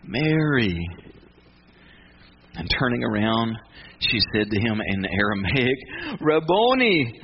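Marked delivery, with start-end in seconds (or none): 0.0-0.8 tender, drawn-out call; sweet, familiar voice. Acted. Jesus saying her name to Mary, tenderly. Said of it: "She hears that familiar, sweet voice". 6.2-7.2 slow, higher-pitched cry; joyful recognition. Acted. Mary turning to Jesus in recognition, joyful.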